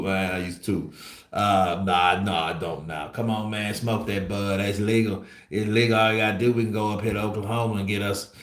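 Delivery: a lightly voiced Errol Spence, loose Texas swagger; Errol Spence impression. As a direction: hype up a visiting friend showing off Texas, barely changing your own voice. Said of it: "can you do an impression of Errol Spence showing A J around Texas".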